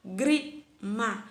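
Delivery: "Lágrima" slowly broken into LÁ, GRI, MA; syllable by syllable. Shown as a demonstration. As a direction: split "Lágrima" into slow separate syllables. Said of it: "A sílaba tônica dela é a antepenúltima".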